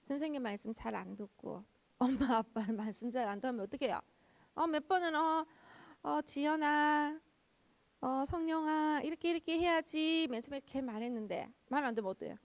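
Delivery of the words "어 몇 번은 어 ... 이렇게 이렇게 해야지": put-on drawn-out, higher calling to a child; parent's slow, sing-song reminder; patient parental admonishing. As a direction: gently chide them, stretching out the names. Parent patiently correcting children by name.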